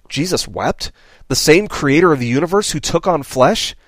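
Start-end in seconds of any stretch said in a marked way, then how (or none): 0.1-0.9 "Jesus wept?" asked as if in disbelief; half-incredulous "Jesus wept?"; questioning. Shown as a demonstration.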